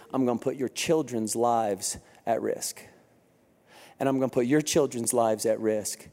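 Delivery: a hint of a grim leader speaking low; Joshua voiced. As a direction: lay out the risk gravely, low.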